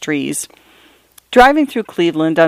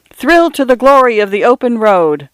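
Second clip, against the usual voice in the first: ad announcer voice; 6 semitones higher than usual. Acted. Billboard slogan read like an ad.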